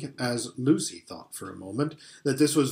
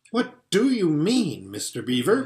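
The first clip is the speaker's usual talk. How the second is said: panting; 4 semitones higher than usual. Acted. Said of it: "panted Peter".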